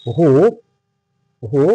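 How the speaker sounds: "হো" drawn out with an audible h; sounded-out "হো". Shown as a demonstration. Teacher showing students the sound, "হো" sounded out. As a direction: sound out "হো" slowly, h first. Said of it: "যখন এইটার উচ্চারণ করব".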